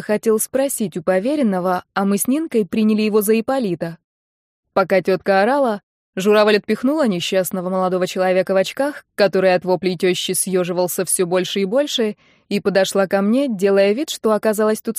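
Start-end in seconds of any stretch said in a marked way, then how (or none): none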